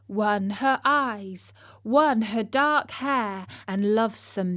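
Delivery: slow, measured recitation of verse; poem reading. A narrator's reading. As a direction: savour each line of the ballad. Reads Tennyson poem.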